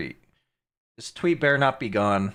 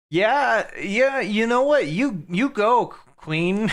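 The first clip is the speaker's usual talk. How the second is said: louder, higher hype, cheering her on; hyped cheering; 7 semitones higher, 4 dB louder, slower than usual. Real, not acted. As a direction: egg her on like a fan at ringside. Cheering on the clip's woman.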